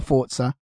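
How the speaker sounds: "Forza" said as "Fort-sa". Shown as a demonstration. Host unsure how to say the game's name, "Forza" as "Fort-sa". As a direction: give "Forza" a ts sound for the Z. Trying two ways to say Forza.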